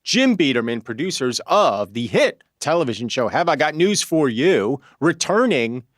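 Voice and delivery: lightly announced host patter; podcast intro. Acted. Host introduces co-hosts and their TV show, in a light announcer's read. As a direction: open high, then roll through the credits.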